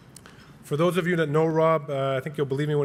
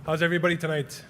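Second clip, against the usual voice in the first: lightly hyped-up stage greeting; Rob; 3 semitones higher, faster than usual. Acted. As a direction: open like a showman warming up the crowd, mildly. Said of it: "that's my best impression of Rob".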